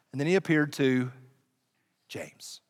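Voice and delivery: whispered reveal of the brother; hushed dramatic reveal. Acted. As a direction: drop to a whisper on James.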